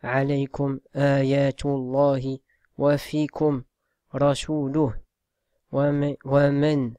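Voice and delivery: measured, chanted verse recitation; Quran recitation. Acted. Teacher reciting a verse to students, chanted reverently.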